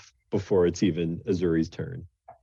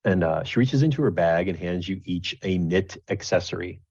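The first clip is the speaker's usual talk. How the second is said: ordinary talk, nothing marked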